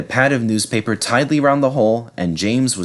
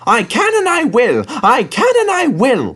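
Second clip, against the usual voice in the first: high, loud, determined engine chant; determined puffing; 4 dB louder than usual. Acted. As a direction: puff it out with grit. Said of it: "puffed James".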